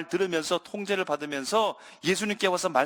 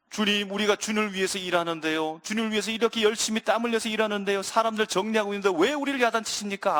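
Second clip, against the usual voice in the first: aggrieved disciples; 2 semitones higher than usual. Acted. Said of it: "그런 마음이었을 거예요".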